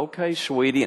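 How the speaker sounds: a hint of a doting old man; mild old-man sweetness. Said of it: "and I'll go".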